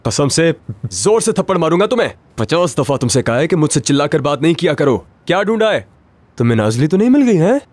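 irritated threat. Acted. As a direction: threaten him, fed up. Boss threatens servant.

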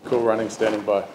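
skipper hailing the Coast Guard on VHF, by the book; radio call demo. Shown as a demonstration. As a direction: call it in like a skipper on channel seven two. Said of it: "we're gonna demonstrate a radio call".

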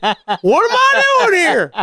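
high, drawn-out redneck yelp; hollering redneck. Retold or imitated. Redneck spotting Nancy Grace on the lot, high slow holler. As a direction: whoop it like a starstruck country boy. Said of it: "the redneck really comes out".

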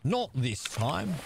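drawn out, rising at the end; sing-song taunt, stretched slowly; a playful villain taunt; slow put-on voice. Repeated in put-on voice.

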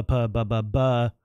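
plosive demo. Shown as a demonstration. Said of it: "the very harsh plosives".

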